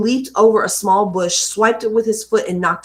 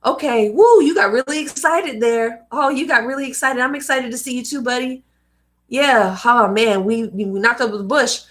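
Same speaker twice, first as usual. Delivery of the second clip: caring dad; 2 semitones higher than usual. Retold or imitated. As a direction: cheerfully comfort the kid after the fall. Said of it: "Dad should have been like".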